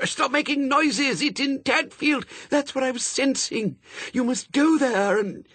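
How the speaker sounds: high, strained, frantic hiss-yell; hissed shout. A narrator's reading. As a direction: urgently press the message on a machine. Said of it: "tried to hiss and shout at the same time".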